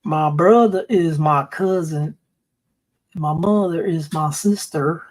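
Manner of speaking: lightly put-on West Virginia drawl, slow; West Virginia accent. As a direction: draw it out like a mock West Virginian. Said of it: "All right, so West Virginia".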